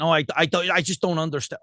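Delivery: mock American listener, lightly voiced; American accent. Baffled listener complaining about the accent, mock American accent. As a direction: imitate an American failing to understand. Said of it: "it's not an American accent".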